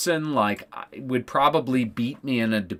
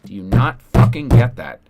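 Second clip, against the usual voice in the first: angry; 7 dB louder than usual. Real, not acted. Angry rant about killing kids.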